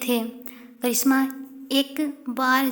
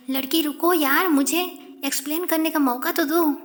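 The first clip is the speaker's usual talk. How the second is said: pleading call; 3 semitones higher, 3 dB louder, faster than usual. Acted. Karishma pleads, calling after.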